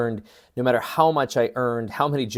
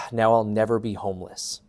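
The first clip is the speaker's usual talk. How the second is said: exhaled relief. Retold or imitated. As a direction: let the breath go, re-enacting a relieved moment. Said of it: "my body exhaled".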